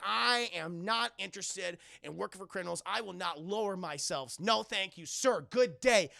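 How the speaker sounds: measured, firm mock-heroic voice; imitated dignified hero turning them down; formal refusal.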